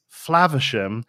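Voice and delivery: Flaversham with a short A, as in "flav"; everyday short A. Shown as a demonstration. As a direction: say Flaversham with the vowel of "cat". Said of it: "Baker and myself would pronounce it".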